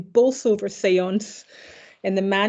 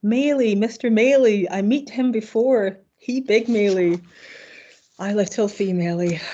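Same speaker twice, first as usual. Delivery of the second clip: half-hearted imitation of the séance spirit's broken-English accent; a hint of a mocking put-on broken-English accent. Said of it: "truly egregious jokes".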